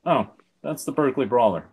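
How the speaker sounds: flat monotone read. Acted. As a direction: say it in a dull monotone. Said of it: "in his monotone voice".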